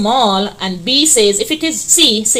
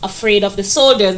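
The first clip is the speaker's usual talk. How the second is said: Nanny wasn't drawn out slowly; slow classroom read-aloud; slow, deliberate reading. Shown as a demonstration. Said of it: "The answer is at C".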